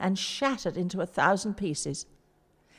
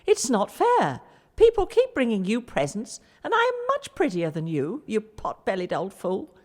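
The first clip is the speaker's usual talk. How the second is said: mock shouting idol; 4 dB louder than usual. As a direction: play the jealous idol yelling. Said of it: "the great god Baal shouted out".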